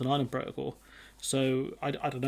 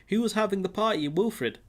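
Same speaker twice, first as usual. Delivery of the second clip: high incredulous question; mock disbelief; 5 semitones higher than usual. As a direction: ask it in mock shock. Mock questioning a lockdown party.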